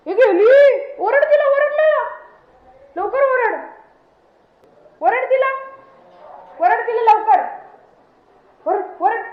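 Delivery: high, loud urgent prodding; excited egging-on. Pretend. Owner egging the dog on to bark, excited and urgent. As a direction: rile the dog up with high-pitched commands.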